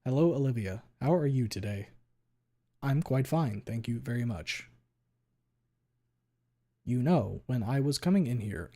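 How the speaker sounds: lightly done flat text-to-speech voice, each word clearly separated; monotone TTS voice. Shown as a demonstration. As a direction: read it like a polite robot, evenly. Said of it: "monotone thing".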